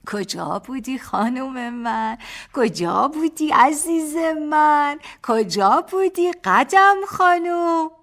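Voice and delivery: put-on high, slow baby-talk cooing; childish voice. Husband teasing his wife in baby talk, childish voice. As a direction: coo at her like talking to a toddler. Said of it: "صدایش را بچگانه کرده بود".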